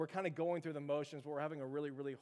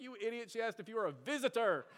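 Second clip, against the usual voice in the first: higher-pitched imitation of teasing friends; mock exasperation; 5 semitones higher than usual. Friends dying laughing at his mistake, mock exasperation. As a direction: explain it to him like he's an idiot.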